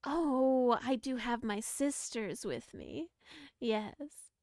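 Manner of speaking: lightly voiced sweet granny; coaxing old granny, slow. GM keeps granny NPC voice.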